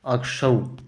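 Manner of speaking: अक्षौ said alone, soft, falling; teacher isolating अक्षौ softly; isolated syllable. Shown as a demonstration. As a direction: pull out अक्षौ on its own to show the spelling. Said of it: "यहाँ पे अक्षौ आएगा".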